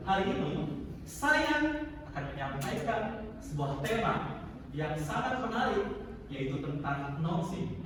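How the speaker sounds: rising and falling phrase by phrase; playful intonation. Shown as a demonstration. Teacher showing lively intonation. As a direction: play the tune up and down. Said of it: "ada nggak kira-kira permainan adanya".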